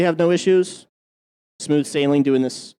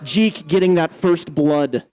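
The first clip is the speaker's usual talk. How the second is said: excited play-by-play; 4 semitones higher, 3 dB louder than usual. Real, not acted. First blood live play-by-play.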